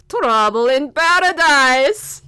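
put-on slow, delighted Russian accent. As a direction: savour the gossip in a Russian accent. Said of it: "read this with the accent".

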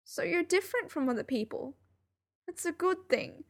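high, tearful reassurance; choking up. A narrator's reading. Narrator reassures Sherlock that different is good, choking up. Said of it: "I was choking up".

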